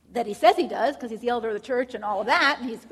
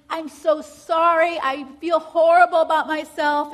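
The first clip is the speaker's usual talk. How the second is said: slow, much louder pleading apology, as the crying husband; imitating a crying apology; 5 semitones higher, 12 dB louder than usual. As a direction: replay the husband's tearful apology, half-acted. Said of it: "He's crying".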